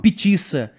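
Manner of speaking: "Petiça" com som de Ç, sílabas marcadas; fonema trocado. Shown as a demonstration. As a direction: troque os sons de pizza em "Petiça". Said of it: "quando você muda o fonema". ("Petiça", pizza dita errado de propósito)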